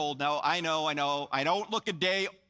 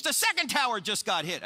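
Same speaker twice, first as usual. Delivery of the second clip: retold shout, raised in pitch; mock scream; 4 semitones higher than usual. Pastor on the phone reporting the attack, mild mock scream. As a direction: imitate a sudden cry of alarm without full volume. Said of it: "suddenly he screams into the phone".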